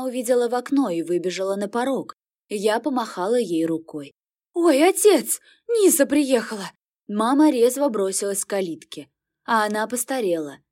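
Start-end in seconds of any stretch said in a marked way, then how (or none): 4.5-6.7 high, loud happy call; joyful shout. Acted. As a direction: call the news into the house. Mother calls out, daughter arrived.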